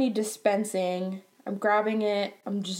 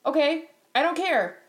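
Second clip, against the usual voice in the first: higher-pitched, dismissive retort; snarky; 5 semitones higher than usual. Retold or imitated. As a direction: brush it off with snark. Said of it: "I respond in a snarky way".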